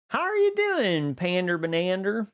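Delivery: high, bright sing-song hello; squealed hello to a chatter; excited greeting. Real, not acted. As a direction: greet a friend with a big lift.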